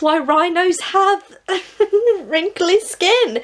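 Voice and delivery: dissolving into a high giggle on the punchline; laughing. Real, not acted. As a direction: laugh through the last words, slow and amused. Punchline of a silly story.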